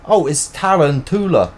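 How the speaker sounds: loud Irish accent rising to a high exclamation. Shown as a demonstration. Repeating the memory trick for tarantula, exuberant Irish accent. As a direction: build to a big, high Irish outburst. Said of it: "say it in an Irish accent".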